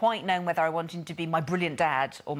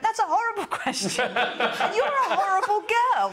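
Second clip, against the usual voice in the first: Paul's horrified reply; 13 semitones higher, 4 dB louder than usual. Retold or imitated. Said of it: "he went".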